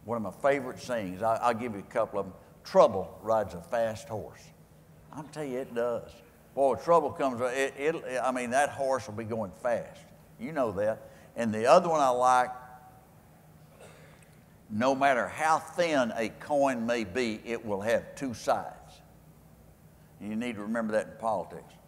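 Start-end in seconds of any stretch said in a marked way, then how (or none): 2.6-4.4 slow, weighty proverb delivery; slow saying. Acted. Reciting his favorite saying slowly to the crowd. 14.7-18.7 slow, measured proverb; slow saying. Acted. Offering the audience another saying of the day slowly. Reciting his second favorite saying.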